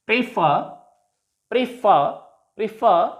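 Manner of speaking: "prefer" with stressed FER; spaced preFER, repeated for learners; stress on last syllable. Shown as a demonstration. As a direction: lean on FER in each "prefer". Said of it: "stress is on the last syllable".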